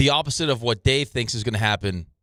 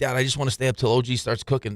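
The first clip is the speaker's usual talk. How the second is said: normal talking voice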